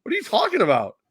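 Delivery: high, loud, indignant outburst; mock Dana White rant. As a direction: yell it like an offended boss.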